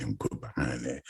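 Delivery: unvoiced smooth whisper; whispered aside. Host setting up smooth music, whispered. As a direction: breathe it like a late-night DJ. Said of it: "smooth music".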